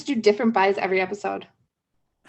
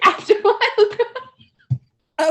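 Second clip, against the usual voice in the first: high, slow, drawn-out reply; childish high-voiced comeback; five-year-old talk; 11 semitones higher, much slower than usual. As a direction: answer like a little kid, dragging it out. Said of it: "talk like a five-year-old".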